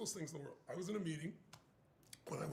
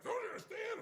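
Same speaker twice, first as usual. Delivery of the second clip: agitated shout. Retold or imitated. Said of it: "He's like".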